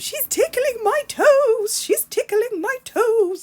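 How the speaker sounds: put-on very high-pitched, loud little-girl voice. Recalling bath time with the girls, imitating Mary's high-pitched voice. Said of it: "in this really high-pitched voice".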